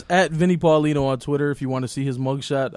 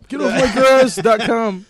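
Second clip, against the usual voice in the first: mock grumpy old man; 5 semitones higher, slower than usual. Mocking old grumpy host.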